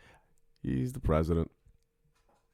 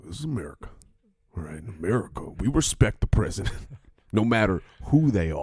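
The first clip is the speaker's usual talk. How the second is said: gunslinger patriot. Acted. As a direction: play a swaggering sheriff laying down law. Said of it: "You talk like you got six shooters".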